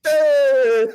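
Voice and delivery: loud, high New York "Hey!"; New York shout. Shown as a demonstration. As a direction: yell it like a New York guy. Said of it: "your sentence starts with".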